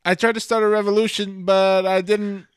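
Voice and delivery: high soft Kiwi Korg voice; New Zealand accent. Retold or imitated. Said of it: "South New Zealand accent, just this soft tone".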